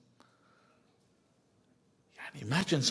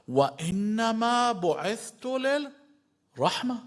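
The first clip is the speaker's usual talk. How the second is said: raised recitation; 6 semitones higher, slower than usual. Retold or imitated. Prophet's words on mercy.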